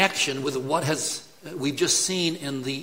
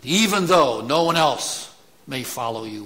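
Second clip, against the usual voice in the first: boastful Peter; 5 dB louder than usual. Retold or imitated. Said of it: "Puff out your chest when you say this".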